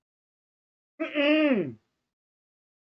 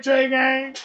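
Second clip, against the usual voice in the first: shouted denial; 4 semitones higher, 7 dB louder than usual. Retold or imitated. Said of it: "You gonna be like".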